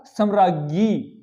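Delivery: सम्राज्ञी drawn out slowly on the last syllable; correct form. Shown as a demonstration. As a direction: stretch सम्राज्ञी out clearly for pupils. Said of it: "होता क्या है?". (सम्राज्ञी का धीमा, स्पष्ट उच्चारण)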